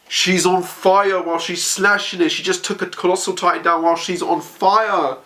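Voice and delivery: high, awed narration. Real, not acted. Fan marvelling at burning Hanji, high awed voice. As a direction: marvel at her.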